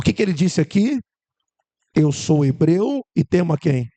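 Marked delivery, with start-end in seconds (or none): 1.9-3.9 loud slow quote. Acted.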